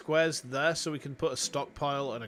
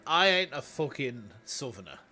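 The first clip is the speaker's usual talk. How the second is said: Yorkshire twang. Pretend. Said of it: "you and your mate who is from London".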